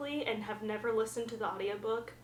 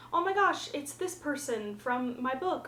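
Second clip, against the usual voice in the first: imitated excited exclamation; 4 semitones higher than usual. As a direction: gush like the excited main character. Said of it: "when she's talking about".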